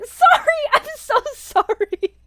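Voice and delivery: very high, loud, drawn-out sorry; squealed apology. Real, not acted. Streamer apologizing to viewers for loud music, high giddy squeal. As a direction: squeal it out, helpless with embarrassment.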